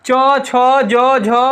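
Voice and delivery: चो, छो, जो, झो with the tongue on the palate; palatal consonants. Shown as a demonstration. Teacher repeating the palate demo for pupils, palatal articulation. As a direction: press up to the palate for चो, छो, जो, झो. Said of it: "बार बार तालु में देखो".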